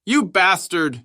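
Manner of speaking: high, loud, drawn-out curse; slow, furious yell; angry shout. A narrator's reading. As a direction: hurl the insult in fury. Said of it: "shouted Halls".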